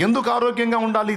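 high-pitched challenge from the pulpit. Shown as a demonstration. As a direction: fire the question out high to the congregation. Rhetorical question to congregation.

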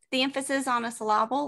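"syllable" said sih-LAH-bul; wrong-syllable stress. Shown as a demonstration. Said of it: "emphasis on the wrong syllable".

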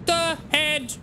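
very slow, drawn-out words climbing in pitch; slow mock threat. Player threatening the fleeing game dealers, slow mock menace. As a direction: spell out a playful threat word by word, rising.

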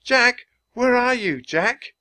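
high, loud calling from far up; shouting. A narrator's reading. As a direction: call out searching for him. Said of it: "He heard Annie shout".

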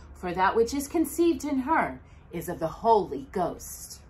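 measured scripture reading to a congregation; Bible reading. Acted. Reading Matthew's Christmas story to the children, measured scripture voice. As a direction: read the King James text with care. Reads Matthew chapter one aloud.

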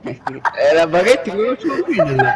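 laughing. Real, not acted. Giggling about the long baguette.

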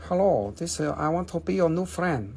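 playful crystal character in broken English; lightly voiced accented Moldavite; talking Moldavite. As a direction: speak as a mischievous stone introducing itself. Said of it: "I'm gonna stop talking about the Moldavite".

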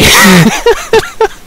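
very high, helpless laughter; high fright laugh. Real, not acted. Gamer recovering from a spider scare, high helpless laugh.

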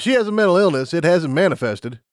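brisk scientist explaining rules; lab unicorn. Acted.

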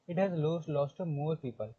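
reads the English line out word by word, slowly; slow textbook reading. Shown as a demonstration. Teacher reading the textbook to students, slow and deliberate. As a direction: spell the sentence out slowly for the class.

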